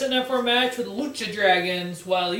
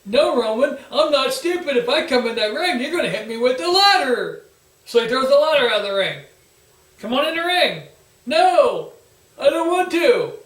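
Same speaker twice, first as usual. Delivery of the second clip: whiny mock Sheamus; 4 semitones higher, 7 dB louder than usual. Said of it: "Sheamus refusing again".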